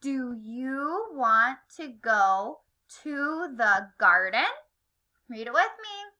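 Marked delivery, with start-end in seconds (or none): 0.0-4.5 slow "Do you want to go to the garden?" rising sharply on "garden"; like a question. Shown as a demonstration. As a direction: lift "garden" at the end as a clear question. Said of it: "we have to say it like a question".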